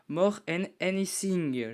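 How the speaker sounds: slow, careful French-accented English title; struggling to say the English title; English accent attempt. Real, not acted. Reviewer apologizing for his English accent, slow attempt. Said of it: "désolé pour mon accent anglais".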